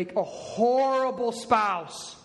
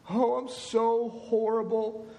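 hammed-up wallowing of a guilty husband; mock groveling. Husband groveling to his wife, mock self-pitying. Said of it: "Repentance is not groveling".

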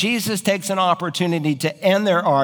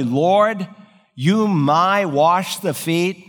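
mock literal rendering; 3 semitones higher, much slower than usual. Shown as a demonstration.

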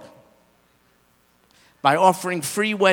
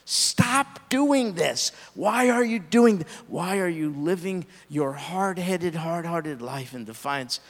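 Lady Wisdom crying out. Acted. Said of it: "Lady Wisdom is willing to cry out".

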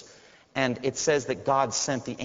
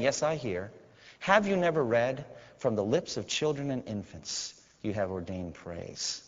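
calm answer; 2 semitones lower, 5 dB quieter than usual. Retold or imitated. Jesus answers quietly.

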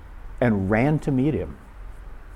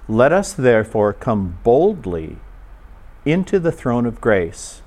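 slow, measured scripture reading with long pauses. Real, not acted. Preacher reading scripture to listeners with closed eyes, very slowly. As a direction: read it slowly, a phrase at a time. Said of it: "I'll read it very, very slowly".

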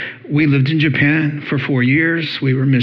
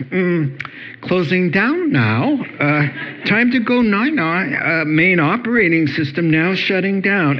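brain shutting down; 4 semitones higher than usual. Pretend. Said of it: "your brain signals you".

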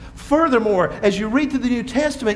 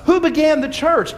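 calling out; 6 semitones higher, 4 dB louder than usual. Real, not acted. Preacher repeats question louder.

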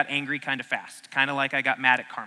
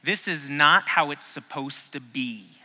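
slow, deliberate phrase; 2 semitones lower than usual. Shown as a demonstration. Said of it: "That phrase is this".

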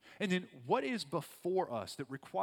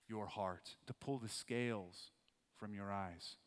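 gentle invitation; 2 semitones lower than usual. Acted. Quiet invitation to believe.

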